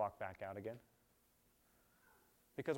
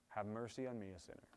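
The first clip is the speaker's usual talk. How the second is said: humble plea; 6 dB quieter than usual. Shown as a demonstration. Modelling the sinner's prayer.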